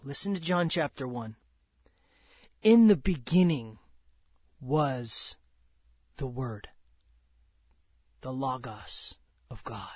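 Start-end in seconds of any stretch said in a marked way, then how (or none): 2.6-9.9 starts strong, sinks to a breathy whisper by the end; fading to a whisper. Acted. Preacher reading scripture to the church, fading into a whisper.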